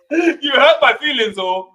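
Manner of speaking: slow, laughing mock protest; mock hurt, laughing. The speaker pretending the host insulted him, laughing mock hurt. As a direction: fake wounded feelings, laughing. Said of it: "I feel offended".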